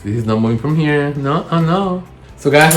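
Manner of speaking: ordinary delivery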